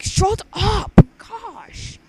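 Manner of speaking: loud high shout of protest. Real, not acted. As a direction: yell it, half joking. Friend's outburst at teasing.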